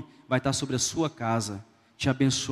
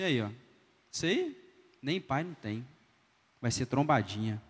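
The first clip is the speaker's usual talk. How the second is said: scornful doctor; 3 semitones lower, 5 dB quieter than usual. Retold or imitated. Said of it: "virou para o filho e falou assim".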